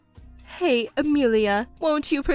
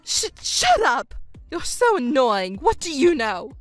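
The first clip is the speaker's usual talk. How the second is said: angry outburst. Acted. Mother silencing her accusing stepdaughter, angry and flustered. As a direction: lash back at an accusation.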